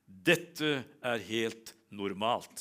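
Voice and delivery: very slow, drawn-out verdict; the old doctor calmly telling the parents, very slow. Retold or imitated. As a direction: stretch each word like an unbothered old doctor.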